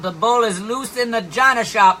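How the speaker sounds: loud, high mock-president warning; hammed-up president voice; imitating the president. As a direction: announce it as a parody president. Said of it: "I say it like the president says it".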